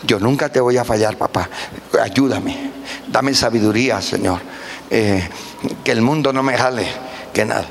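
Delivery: tearful prayer. Retold or imitated. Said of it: "con lágrimas".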